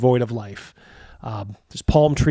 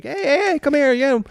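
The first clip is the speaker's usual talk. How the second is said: much higher, pushy vendor calls; market tout; 12 semitones higher, 4 dB louder than usual. Acted. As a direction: hawk spices in a high, loud voice. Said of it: "they're telling you".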